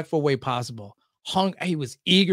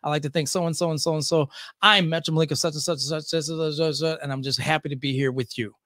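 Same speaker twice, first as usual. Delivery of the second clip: radio host intro; 4 semitones lower, 5 dB quieter than usual. Retold or imitated. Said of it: "I went".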